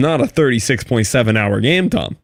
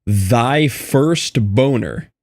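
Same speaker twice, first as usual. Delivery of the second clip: slow, grand proclamation; dramatic reading; 3 semitones higher, much slower than usual. Acted. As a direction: read it like an epic title. Reading achievement names dramatically.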